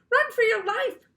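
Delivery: high loud scream of run. A narrator's reading. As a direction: scream the warning. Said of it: "we all screamed".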